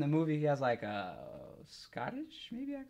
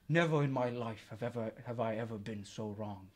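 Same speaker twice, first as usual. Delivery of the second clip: Thorin voice; 6 semitones lower, 4 dB quieter than usual. Acted. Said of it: "in Thorin and the Hobbit".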